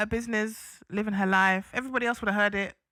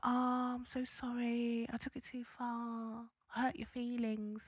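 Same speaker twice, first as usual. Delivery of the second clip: much softer, hushed mock sorry; mock apology; 12 dB quieter than usual. Co-host mocking people who apologise when tears come, hushed. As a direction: drop to a sheepish murmur. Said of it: "everyone's like".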